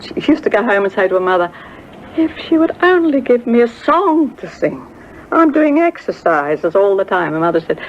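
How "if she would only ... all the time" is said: put-on high, complaining girl's voice; a pleading daughter; whiny young girl. Gladys complaining to her mother.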